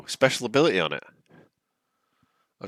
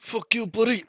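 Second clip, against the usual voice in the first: angry taunt; 8 dB louder than usual. Acted. Player snarls at enemy after hit.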